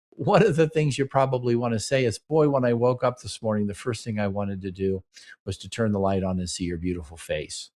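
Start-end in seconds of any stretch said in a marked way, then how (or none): 2.2-7.7 falling softer and lower into tenderness; sweet, quiet admiration for a partner; tender compliment. Acted. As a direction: say it lovingly, easing down to a soft finish.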